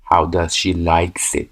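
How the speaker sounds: 1 slow wrong version. Shown as a demonstration. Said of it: "اینجا نباید بگیم".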